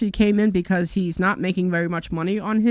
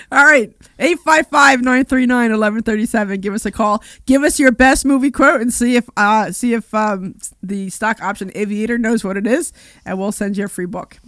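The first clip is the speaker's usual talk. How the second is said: suppressing laughter; 2 semitones higher, 6 dB louder than usual. Real, not acted. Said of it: "stop making me laugh".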